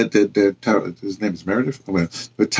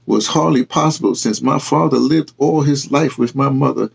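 quiet pride; 3 semitones higher than usual. Acted. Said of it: "Ty Renee said quietly".

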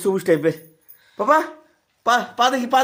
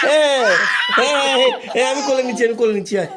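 laughing; 5 semitones higher than usual. Real, not acted. Laughing with excited toddler.

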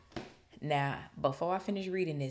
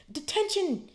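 sharp high shout, much louder; 5 dB louder, slower than usual. A narrator's reading. McGonagall catching Malfoy at night, high angry shout. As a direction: bark it like a furious teacher. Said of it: "she shouted".

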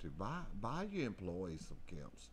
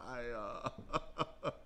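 breathless laugh; 4 semitones higher than usual. Real, not acted. Laughing after shouting.

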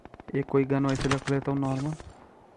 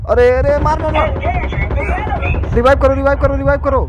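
very high, loud frantic screaming; raging gamer; 11 semitones higher, 10 dB louder than usual. Real, not acted. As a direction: scream at teammates in panic. Desperate calls while downed. (घबराहट में बहुत ऊँची चीख)

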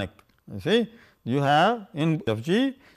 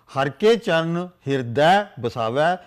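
recited scripture line. Shown as a demonstration. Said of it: "You have".

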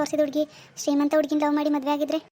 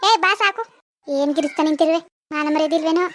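scolding; 4 dB louder than usual. Acted. Scolding a drunk, weeping man.

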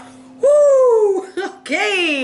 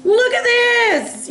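mock pleading; 10 semitones higher, much slower than usual.

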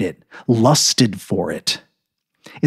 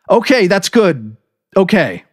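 dazed; 10 semitones higher, 4 dB louder than usual. A narrator's reading. Narrator numbly accepting, talking to nobody. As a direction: repeat it numbly to yourself.

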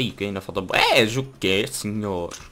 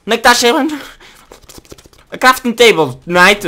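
high, loud urgent shouting; yelling at Knight to find the table; frantic yell; 12 semitones higher, 11 dB louder than usual. Real, not acted. Yelling for crafting table mid-fight.

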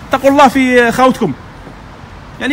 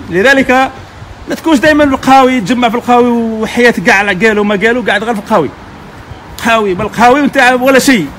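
ordinary talk

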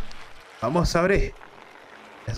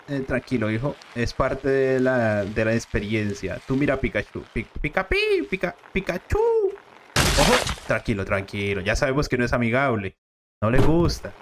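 low, calm fatherly voice; dad voice; 6 semitones lower than usual. Acted. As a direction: soothe your son as the gruff dad.

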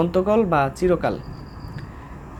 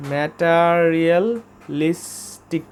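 ম্যাটেরিয়ালিস্টিক spelled out syllable by syllable, slowly; slow syllable demo; much slower than usual. Shown as a demonstration. Teacher to vocabulary students, slow careful demo of ম্যাটেরিয়ালিস্টিক. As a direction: draw out ম্যাটেরিয়ালিস্টিক slowly so learners can copy. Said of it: "ঠিক আছে?".

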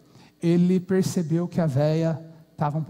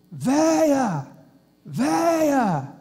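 shouting for his wife; 6 semitones higher, much slower than usual. Acted. Old man calling his wife from the yard, shouting. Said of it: "O velho começou a gritar de longe".

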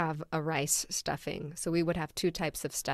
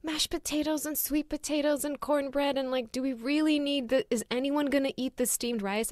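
incredulous questioning; 8 semitones higher than usual. Retold or imitated. Retelling questioning mom about rice.

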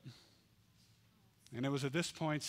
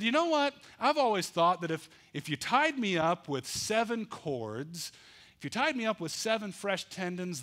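puffed-up boast. Acted. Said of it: "with his chest puffed out".

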